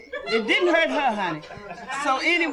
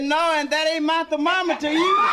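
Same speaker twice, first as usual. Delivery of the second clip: raised, louder punchline; 5 semitones higher, 3 dB louder than usual. Acted. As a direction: belt the punchline out. Doctor's punchline.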